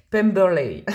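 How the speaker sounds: French speaker's go at an English accent; slow, amused try at English pronunciation; English name in a self-mocked English accent; attempted English accent. Real, not acted. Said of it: "Moi et mon accent anglais".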